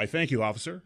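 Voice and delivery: proper polite voice; polite white-boy voice. Retold or imitated. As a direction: sound squeaky clean for the cop. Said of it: "You sound like a white boy".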